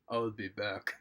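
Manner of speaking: low, slow action-hero catchphrase, lightly done; a hint of a slow, low movie tough guy; Sylvester Stallone as Terminator. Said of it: "Stallone as in Term-, Terminator two".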